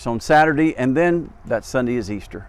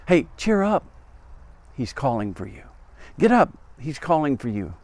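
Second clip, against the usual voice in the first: crowd calling out; 2 semitones higher than usual. Retold or imitated. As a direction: urge him up like an excited crowd. Crowd calls the beggar over.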